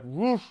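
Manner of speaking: imitated whoosh. Shown as a demonstration.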